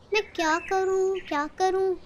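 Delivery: softly mulling it over; muttering to herself. Acted. Mother quietly pondering what to do, murmured.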